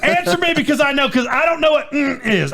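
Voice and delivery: high-pitched, pleading exasperation; hammed-up scolding, half amused; mock exasperated lecture. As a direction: plead with a silent kid to use words. Acted exasperated scolding of child.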